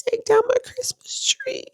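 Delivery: whispered aside; a quick whispered list item. Real, not acted. Reading her to-do list.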